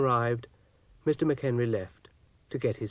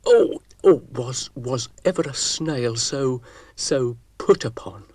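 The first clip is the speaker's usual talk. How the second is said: snaily huff; 3 semitones higher, 7 dB louder than usual. Acted. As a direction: lament like the world's most wronged snail. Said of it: "in a snaily huff".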